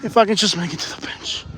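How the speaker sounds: winded, straining to keep going; breathless muttered self-encouragement; out of breath. Real, not acted. Winded vlogger struggling toward a bench, out of breath. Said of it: "I'm so out of breath".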